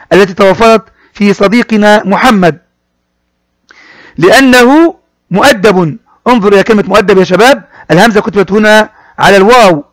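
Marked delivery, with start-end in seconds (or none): 4.2-6.0 slow model reading. Shown as a demonstration. Teacher models phrase slowly.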